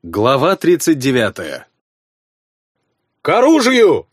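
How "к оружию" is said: loud, higher battle roar; roared command. A narrator's reading. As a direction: bellow the call to arms. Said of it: "взревел барон".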